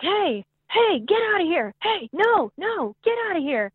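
high-pitched mock yell, each shout swooping; distant-neighbor holler, not at full volume; imitated yelling. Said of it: "I hear him yelling and screaming".

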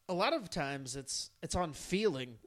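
talking through hiccups. Real, not acted. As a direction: speak between hiccup spasms. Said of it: "And hiccups".

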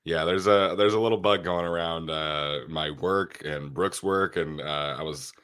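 stuffy sick nasal voice. Real, not acted. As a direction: talk through a blocked nose. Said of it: "apologies for the, the nasally voice today".

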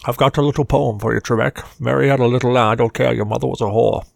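mock Scottish star reciting a crude poem; Sean Connery. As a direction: recite it to needle the quiz host, in imitation. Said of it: "that was one hundred percent Sean Connery".

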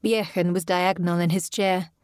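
usual speaking voice

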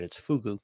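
"fugu" with oo in both syllables; corrected pronunciation. Shown as a demonstration. Co-host correcting the host's word, "fugu" said FOO-goo. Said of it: "pronounce it right".

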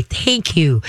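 calm, drawn-out thank you; calm praise. Shown as a demonstration. Trainer rewards the pup for obeying, calm. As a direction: praise without exciting the listener. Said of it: "just call 'em and say".

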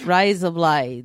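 amateur Australian twang; Australian accent. Shown as a demonstration. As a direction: try out an Australian accent, stretched out. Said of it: "You could do an accent".

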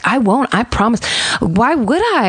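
imitated earnest promise. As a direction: promise sweetly, as if retelling her act. Victim placating her captor, retold.

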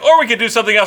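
high, lightly mimicked voice; imitated wife. Acting out wife's suggestion.

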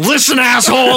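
rehearsed comeback. Pretend. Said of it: "Here's how this would've gone".

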